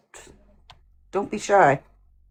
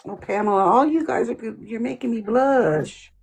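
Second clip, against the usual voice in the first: playful southern accent, stretching the last words; 3 semitones higher than usual. Real, not acted. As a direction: gush bashfully in a southern accent. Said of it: "Why did I get a sudden southern accent".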